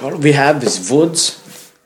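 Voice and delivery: mock brooding metalhead. Mock Finnish metalhead lament.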